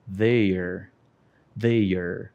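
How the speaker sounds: "Their" said low and short; teacher models "Their" twice, low; model pronunciation. Shown as a demonstration. Teacher drills "Their" low and short for the class. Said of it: "vamos praticar a pronúncia".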